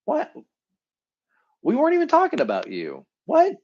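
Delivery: baffled friend reacting; mock friend, caught off guard; surprised what. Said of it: "they'll probably say".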